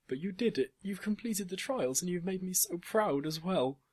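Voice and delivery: high, loud, gushing praise; proud excitement. A narrator's reading. Father praising his daughter for the trials, proud excitement. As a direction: burst out with pride, pitch way up.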